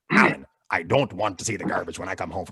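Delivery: put-on Trinidadian accent, stern mom order. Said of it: "my mom's a pirate. That's why she sounds like that".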